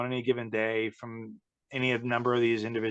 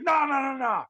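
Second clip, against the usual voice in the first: mock angry insistence; 11 semitones higher than usual. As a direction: lecture them like an indignant star. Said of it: "He's like".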